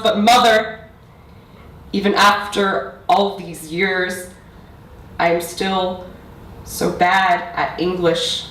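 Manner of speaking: building, emphatic poetry recital; spoken-word poetry. Acted. Poet reciting to parents and audience about mother tongue, spoken-word delivery. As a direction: press through the lines, then pause for weight.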